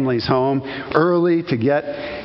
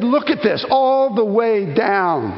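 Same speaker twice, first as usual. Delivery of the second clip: awed pointing; 5 semitones higher, slower than usual. Retold or imitated. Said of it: "I said".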